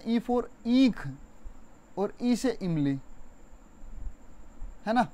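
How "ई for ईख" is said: ईख with the ई held long and slow; long ee demo. Shown as a demonstration. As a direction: stretch the ई in ईख for the class. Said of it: "ई से बोलते हैं ना".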